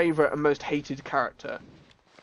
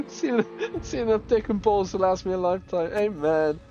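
imitating the soldier; 4 semitones higher than usual. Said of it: "soldier's line just heard".

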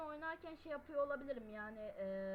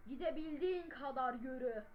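louder, as if yelling at the mic; game line pushed out louder; loud reading. Shown as a demonstration. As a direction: read it out with extra push. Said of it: "Yani şöyle".

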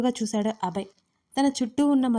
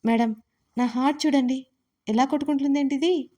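hammed-up frightened plea; pretend fright; 3 semitones higher than usual. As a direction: fake panic about his heart. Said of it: "భయపడుతున్నట్టుగా".

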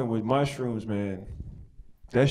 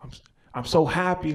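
blissed out; 4 semitones higher than usual. Retold or imitated. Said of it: "But I was on mushrooms".

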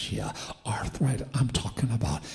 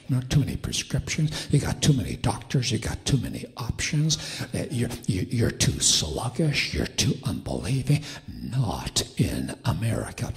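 mocking voice. Voice of darkness to American church, mocking. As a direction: list their failings as a jeer. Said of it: "I hear a voice that goes something like this".

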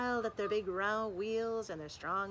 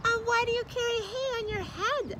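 high, louder, squeaky teasing sister; mocking sister truck; 14 semitones higher, 6 dB louder than usual. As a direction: jeer at her like a bratty little sister. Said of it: "asked her sister".

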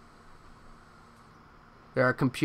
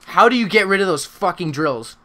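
usual speaking voice

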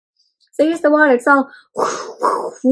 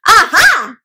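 group exclamation; 5 semitones higher than usual. Shown as a demonstration. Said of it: "In three, two".

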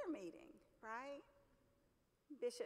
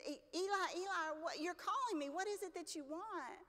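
put-on higher-pitched boy rushing in; retold boyish urgency, pitched up; eager calling; 6 semitones higher than usual. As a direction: lightly act an eager child answering a call. Boy runs in, calls Eli.

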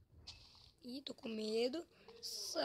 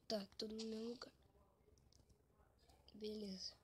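fast unvoiced whisper; 2 semitones lower, 12 dB quieter, faster than usual. Real, not acted. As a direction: mutter it to yourself. Whispered aside.

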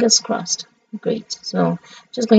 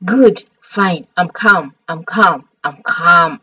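talking oneself down, short falling phrases; forced calm; 3 semitones lower than usual. Real, not acted. Streamer composing herself after squealing, forced calm. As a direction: insist on being calm, pitch settling lower. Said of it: "I'm so damn calm right now".

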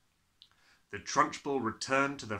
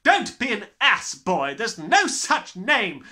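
loud, higher tirade; furious headmistress; 8 semitones higher, 11 dB louder, slower than usual. Acted. Headmistress raging at the cheeky boy. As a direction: roar the insults.

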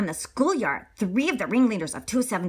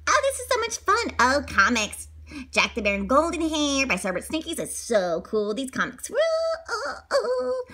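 put-on high happy kids; 6 semitones higher than usual. Kids reading comics.

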